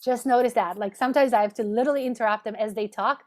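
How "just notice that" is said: gently. Shown as a demonstration. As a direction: ease the client back gently. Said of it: "you just try very gently and say".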